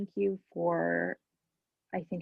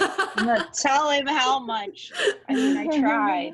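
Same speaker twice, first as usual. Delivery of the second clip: crying; 6 semitones higher, 4 dB louder than usual. Real, not acted. Moved to tears thanking husband.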